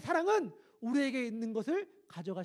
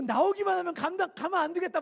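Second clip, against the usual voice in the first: loud, high angry threat; angry recruit threat; 8 semitones higher, 6 dB louder than usual. Retold or imitated. Fellow recruit cursing whoever made the noise. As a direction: threaten the culprit with rage. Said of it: "욕을 막 옆에서".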